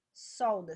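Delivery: "solda" split into sol-da; syllable by syllable. Shown as a demonstration. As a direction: say "solda" slowly in two separate syllables.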